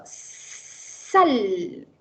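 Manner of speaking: "sal" with a clear S through the teeth; teacher modelling S. Shown as a demonstration. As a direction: say "sal" slowly, S hissed on the teeth. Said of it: "A ver, repite conmigo". ("sal" con la S bien marcada entre los dientes)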